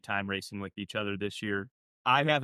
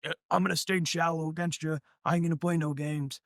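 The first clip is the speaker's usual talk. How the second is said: higher-pitched mimic of a worked-up racer; wigged-out rival imitation; 7 semitones higher than usual. Driver retelling his boss's pre-race warning, wigged-out imitation. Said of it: "he was all wigged out".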